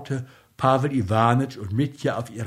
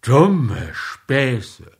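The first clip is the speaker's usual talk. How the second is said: grumbled; 6 dB louder than usual. Acted. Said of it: "brummte er".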